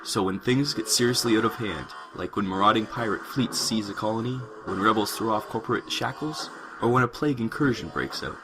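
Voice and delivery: measured sci-fi prologue narration; story narration. A narrator's reading. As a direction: narrate the grim backdrop of a space story. Reads story introduction.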